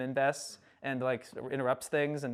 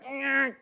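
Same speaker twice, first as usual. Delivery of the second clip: high strained "uh"; short pitched-up mock whine; imitated grunt; 9 semitones higher than usual. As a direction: mimic a helpless little noise. Imitating Kota's wordless reaction.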